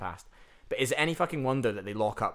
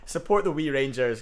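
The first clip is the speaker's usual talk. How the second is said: much higher, louder, hammed-up cheerleader call; mock Berwick promo; 7 semitones higher, 6 dB louder than usual. Urging listeners to visit Berwick, high loud mock hype. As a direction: sell Shielfield Park like a cheesy hype man.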